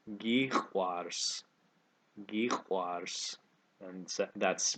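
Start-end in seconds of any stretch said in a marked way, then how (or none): 0.1-1.4 "Gikwars" drawn out a little for learners; a bit slower. Shown as a demonstration. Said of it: "say that again a little bit slower". 2.3-3.4 "Gikwars" drawn out a little for learners; a bit slower. Shown as a demonstration. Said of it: "say that again a little bit slower".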